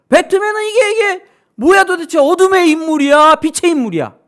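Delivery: high, loud puzzled outcry; baffled question. Acted. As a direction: throw the question out, bewildered. Preacher voices the film's question. (높고 크게 당황한 외침)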